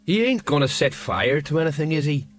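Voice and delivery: understated nervous query; anxious. A narrator's reading. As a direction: ask with a touch of worry. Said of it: "said the sergeant anxiously".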